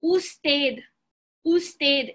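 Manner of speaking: slow, careful "usted" in Spanish; Spanish pronunciation. Shown as a demonstration. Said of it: "you would say".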